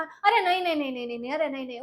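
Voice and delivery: fussy mock refusal of praise; hammed-up false modesty; mock protest. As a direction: play the coy modest refuser. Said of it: "નાટક કરવા".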